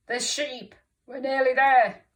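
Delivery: high, loud villain exclamation; thief's voice. A narrator's reading. Teacher voices Len the thief, loud villain voice. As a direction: call it out like an eager baddie.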